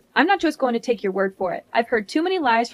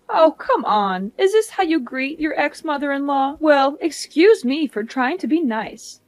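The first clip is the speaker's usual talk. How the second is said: lightly voiced, higher-pitched affronted mother-in-law; snubbed mother-in-law; 4 semitones higher than usual. Ex-mother-in-law snubbed by Vivian, lightly raised indignant voice. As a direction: act put out at a cold welcome.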